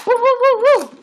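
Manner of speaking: high, loud hooting woos; monkey-style woo calls; monkey hoots. Acted. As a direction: hoot like a monkey. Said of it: "I've been working on my monkey noises".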